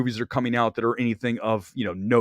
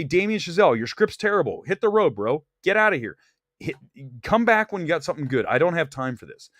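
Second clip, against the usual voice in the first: brash dismissal; 4 semitones higher than usual. Pretend. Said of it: "and you say".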